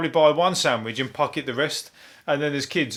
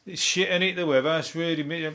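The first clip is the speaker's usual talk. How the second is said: grumbling moan about weather. Retold or imitated. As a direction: whine about the rain. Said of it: "like, going".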